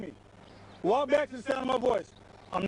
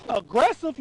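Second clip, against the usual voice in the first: louder, rising disbelief; incredulous echo; 6 dB louder than usual. Real, not acted. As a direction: throw the word back at him. Officer echoing the accusation incredulously.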